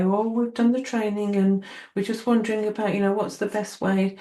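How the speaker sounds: put-on wondering voice; imitated trainees. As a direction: lightly mimic someone asking for guidance. Imitates people contacting her for advice.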